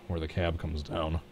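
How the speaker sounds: hiccupping mid-sentence; talking through the hiccups. Real, not acted. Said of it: "I got the hiccups".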